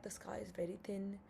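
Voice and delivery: hushed whisper of grim news; retold whisper. Radiologist on the phone with the doctor, whispered. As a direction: drop to a breathy whisper as if sharing bad news.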